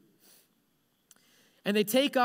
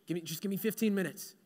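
soft, quick, tired mumble; drained, hurried little plea; weary bargaining; 2 semitones lower, 6 dB quieter, faster than usual. Acted. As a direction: beg softly for a little rest. Tired man begs for a nap.

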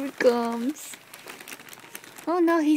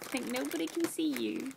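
whisper; 6 dB quieter than usual. Real, not acted. Teasing cat in bag.

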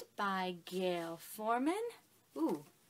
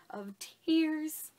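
sudden high breathy whisper; whispered tail; 5 semitones higher, 4 dB louder than usual. Retold or imitated. Finishing the crying story, a sudden whisper. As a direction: let it fall away to a whisper. After the outburst, drops to whisper.

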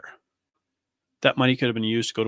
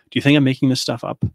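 angry challenge; 3 semitones higher, 7 dB louder than usual. Real, not acted. Angry rant about abuse.

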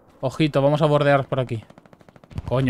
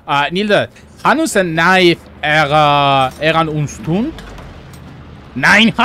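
made-up German, loud and high; fake foreign language; 4 semitones higher, 7 dB louder, much slower than usual. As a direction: babble mock German with gusto. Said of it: "Le cuento un chiste en alemán inventado".

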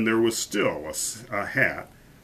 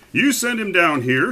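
put-on higher, louder bossy child; proud little boy; 8 semitones higher, 6 dB louder than usual. A narrator's reading. Young duke to his uncle the king, proudly bossy. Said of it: "a very proud little boy".

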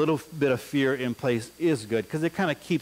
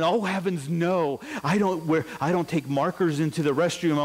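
prim innocent denial; 2 semitones higher than usual. Retold or imitated. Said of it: "fifth graders don't talk like that".

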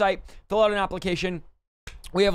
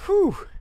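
high, winded exhale; breathless whew; 13 semitones higher, 4 dB louder than usual. Real, not acted. Pastor winded from reading donor names, high whew. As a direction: puff out a tired whew. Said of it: "I'm out of breath here".

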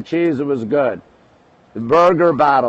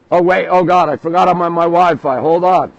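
startled realization; 3 semitones higher, 4 dB louder than usual. Real, not acted. Streamer realizing he is on Wi-Fi, startled and raised. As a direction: catch a mistake live on stream.

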